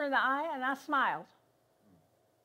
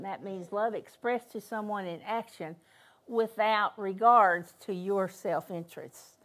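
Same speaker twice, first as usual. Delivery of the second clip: deliberate restatement; 2 semitones lower than usual. Real, not acted. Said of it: "I'll say that again".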